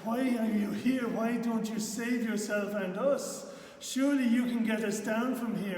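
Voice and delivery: loud, high desperate cry; criminal crying out. Acted. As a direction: shout it up at him in anguish. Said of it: "he cries out".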